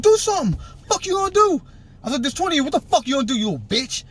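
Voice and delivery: mock shout at the crowd; taunting yell. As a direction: goad them, fading to a sneer at the end. Retold taunting of twenty gang members.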